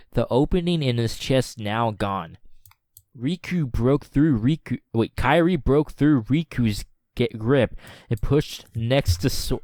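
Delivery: usual speaking voice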